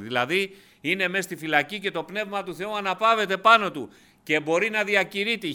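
κήρυγμα με πάθος, πιο ψηλά και δυνατά; κηρύσσει ενθουσιασμένος στο εκκλησίασμα; δυνατό κήρυγμα. Acted. Preacher rises to full force. (κήρυγμα με έξαρση, δυνατή φωνή)

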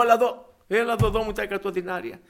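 collar the debtor and demand payment; demanding grab. Retold or imitated. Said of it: "το βουτάω από το λαιμό". (απαιτητική, θυμωμένη φωνή)

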